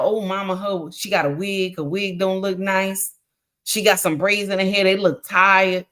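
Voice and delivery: put-on child gossiping to mama. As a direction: report back to mama, low-key and catty. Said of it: "they talk like that".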